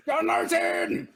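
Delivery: high, slow shouted name; mock shout. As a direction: call the name out from afar.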